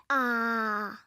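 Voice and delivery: long, low held "aah"; doctor's "ah". Acted. Pretend nurse shows patient how, held "ah". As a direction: demonstrate an open-mouthed "ah". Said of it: "Open wide and say".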